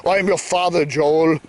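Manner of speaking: lightly voiced movie villain; a hint of mock villainous solemnity; Darth Vader. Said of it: "He's the Darth Vader character".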